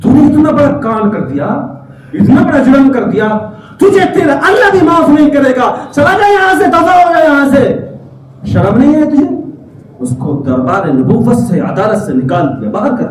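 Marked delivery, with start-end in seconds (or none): 0.0-9.2 raised, stern dismissal; wrathful rebuke. Acted. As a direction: drive him away in anger. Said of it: "جلال آ گیا پیغمبر کو". (جلال بھری ڈانٹ)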